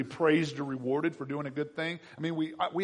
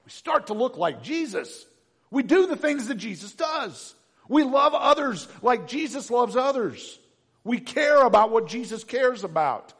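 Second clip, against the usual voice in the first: rising louder, higher each line; building preaching; 8 semitones higher, 8 dB louder than usual. Real, not acted. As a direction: build the list to a peak. Building sermon list.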